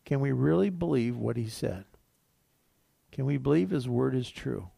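ordinary talk, nothing marked

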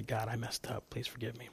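put-on a child of God begs forgiveness, hushed; humble prayer. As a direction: confess quietly to God.

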